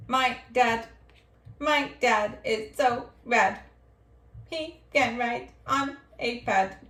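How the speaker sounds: light, even robot voice. Acted. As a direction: read each word like a robot. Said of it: "That was my robot voice".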